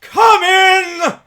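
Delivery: loud, high, booming welcome; booming exclamation. Acted. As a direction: call him in like a giant. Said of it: "exclaimed the ghost".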